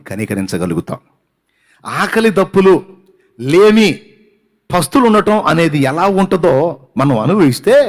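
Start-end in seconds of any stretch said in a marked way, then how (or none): 1.8-7.8 rising, louder preaching cries; higher, louder sermon build; preaching at full force. Acted. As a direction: drive each hardship home from the pulpit. Preacher raising voice on hardships.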